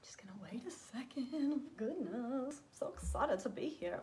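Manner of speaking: breathy aside under the breath; quick hushed aside; whisper. Real, not acted. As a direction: whisper it to yourself while fiddling. Aside while fixing setup.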